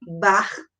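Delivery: "barraca" broken as bar... ra... ca; split into syllables. Shown as a demonstration. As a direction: pause between each syllable of "barraca". Teacher demonstrates syllable separation.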